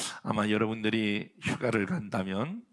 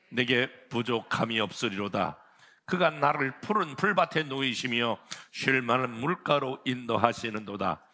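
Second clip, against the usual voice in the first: solemn scripture reading; 3 dB louder than usual. Acted. Preacher reading Psalm 23 aloud to the congregation, reverent. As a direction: read the psalm with measured reverence.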